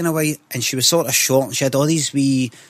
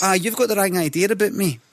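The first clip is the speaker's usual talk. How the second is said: higher-pitched, affronted denial; mock indignation; 6 semitones higher than usual. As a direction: set them straight, mock-affronted. Acted indignant reply to fellow passenger.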